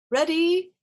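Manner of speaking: high, loud ready call; Rabbit's loud high cry; shouted call. A narrator's reading. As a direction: call it out to start the jump. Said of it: "shouted Rabbit".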